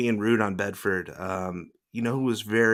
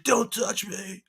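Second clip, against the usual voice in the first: high, slow, drawn-out mock warning; mock Baldwin; 9 semitones higher, slower than usual. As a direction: stretch it out like an offended star. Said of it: "He's like".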